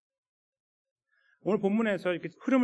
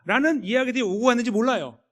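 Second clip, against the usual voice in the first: ordinary delivery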